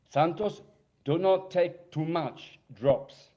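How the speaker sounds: lightly put-on Israeli Jewish accent, slow warning; a hint of an Israeli friend warning; mild imitation of an Israeli accent, slowly cautioning. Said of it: "in his Israeli Jewish accent".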